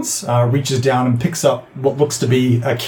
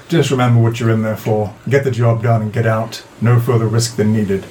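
lightly voiced drow, a little lower; drow without accent; 4 semitones lower than usual. Drow briefing the team before a job, low and level. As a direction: give a low-pitched, no-nonsense order. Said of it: "the only one without a drow accent".

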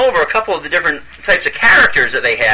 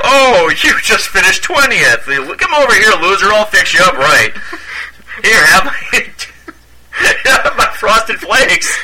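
Tony the Tiger voice; 5 semitones higher than usual. Retold or imitated. Voicing Tony at sports events.

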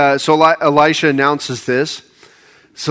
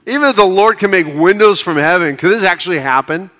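sarcastic scoffing. Retold or imitated. Royal officer scoffing at Elisha's prophecy, sarcastic. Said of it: "he's being sarcastic".

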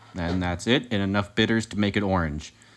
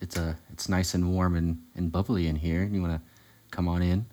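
sexy voice; 2 semitones lower, 5 dB quieter than usual. Acted. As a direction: purr it softly like late radio. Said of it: "my sexy voice is accidentally my N P R voice".

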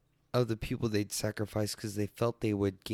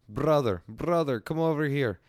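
raised, louder mock Asian accent; put-on Asian accent; 4 semitones higher, 5 dB louder than usual. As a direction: imitate a mall seller calling out in an Asian accent. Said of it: "That's the best Asian accent I can do".

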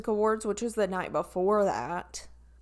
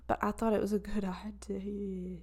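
laughing whisper; 3 dB quieter than usual. Real, not acted.

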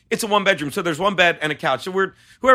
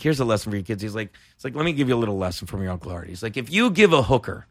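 Artie Lang impression; 7 semitones lower, 4 dB quieter than usual.

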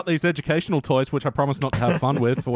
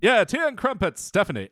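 shaky-attempt English accent, starting high; badly faked English accent; 6 semitones higher than usual. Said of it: "How do you do an English accent?".

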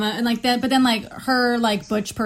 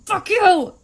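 imitating a loud, high angry yell; mock furious shout; angry outburst; 9 semitones higher, 6 dB louder than usual. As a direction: blow up like a hothead, retold. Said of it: "had such an anger management problem".

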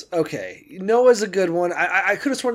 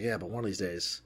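acting out a low, quiet mutter; 7 semitones lower, 13 dB quieter, faster than usual. Maniac in your corner sharpening a knife, low mutter.

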